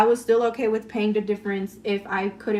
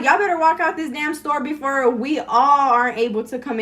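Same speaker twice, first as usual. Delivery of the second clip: louder, higher indignant warning; retold telling-off; 4 semitones higher, 5 dB louder than usual. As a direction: go off on them, retelling it. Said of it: "I was just going off on them".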